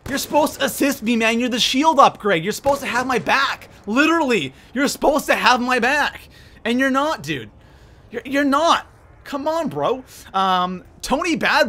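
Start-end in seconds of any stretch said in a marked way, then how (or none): 0.1-10.0 higher-pitched, pleading complaint; indignant protest. Real, not acted. Streamer accusing a teammate of not having his back, indignant. Complaining viewer is trying to kill him.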